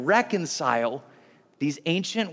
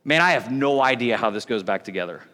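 baffled dad; 8 semitones lower than usual. Retold or imitated. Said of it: "I pick it up and I'm like".

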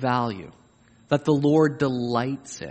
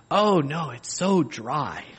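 slow, laughing self-deprecation; mock modest host, laughing; slower than usual. Preacher plays a host calling the chicken dry, laughing. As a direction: fake humility with a chuckle.

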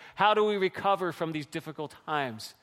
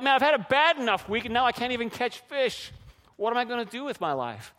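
high-pitched venting, easing at the end; exasperated complaint; 5 semitones higher than usual. Acted. Preacher imagining Peter after catching nothing, exasperated. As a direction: complain like a fed-up fisherman.

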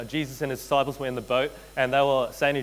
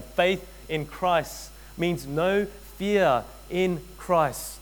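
stretched out, leaning on "fear"; drawn-out repeat for the congregation; slow, deliberate repeat; 3 semitones higher, much slower than usual. Shown as a demonstration. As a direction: say it again even slower. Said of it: "Let me say that again".

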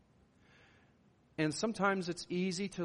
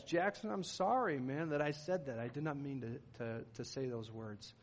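apologizing; 4 dB quieter than usual. Retold or imitated. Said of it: "I've had to apologize".

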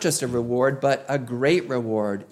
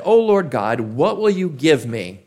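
a hint of a peevish complaint, louder on the opening; peevish petulant; 4 dB louder than usual. Abram complaining to God, mildly peevish and petulant. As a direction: whine it up to God like a sulky child. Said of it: "in a rather peevish, petulant manner".

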